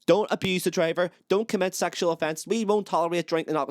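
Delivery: high-pitched mock announcer shouting orders down; hammed-up draconian tannoy voice; draconian announcement. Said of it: "this draconian announcement shutting down to you".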